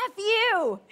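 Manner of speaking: retold player snapping at his coach; angry curse. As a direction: hurl it at her like a sore loser. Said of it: "he turns to her and he goes".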